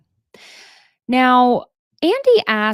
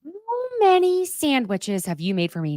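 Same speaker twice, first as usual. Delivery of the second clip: higher, milder demo yell; mild mock scream; 7 semitones higher than usual. Shown as a demonstration. Host demos the scream for listeners, only mildly higher. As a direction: show how to let the frustration out. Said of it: "just scream out".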